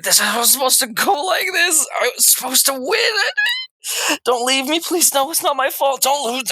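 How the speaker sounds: high, desperate crying plea. Acted. Villain sobbing to the party after defeat, desperate wail. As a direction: wail it out, begging not to lose. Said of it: "He just starts crying, just shouting out".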